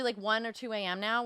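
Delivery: ordinary talk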